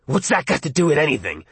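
hoarse, croaking voice; croaked. Acted. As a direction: croak it out roughly. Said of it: "Arnie croaked".

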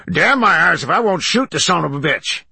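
high, loud angry exclamation; outraged outburst. A narrator's reading. Man rising in the tent to shoot, outraged. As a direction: burst out, ready for a fight.

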